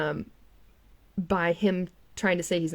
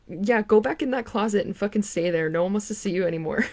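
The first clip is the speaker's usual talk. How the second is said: scornful; 3 semitones higher, 4 dB louder than usual. Real, not acted. Tells him off.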